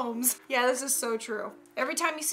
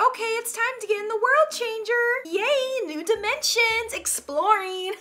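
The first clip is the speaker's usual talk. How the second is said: high-pitched, gleeful mock dog voice; happy dog; 8 semitones higher than usual. A dog stepping into an elevator, happy and excited. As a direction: play an eager, naive dog, thrilled. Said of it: "they're happy about it".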